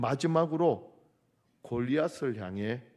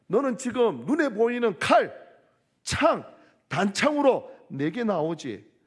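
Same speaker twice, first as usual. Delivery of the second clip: much higher, louder defiant shout; David's cry; 7 semitones higher, 6 dB louder than usual. Acted. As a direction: roar back at the giant. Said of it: "다윗의 외침".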